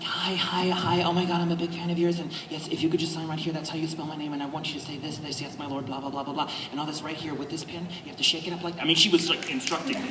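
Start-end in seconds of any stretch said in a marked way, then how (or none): 0.0-8.8 bossy little fan giving instructions, lightly imitated; a hint of a tiny eager girl reading out orders. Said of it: "she's got this tiny little voice like".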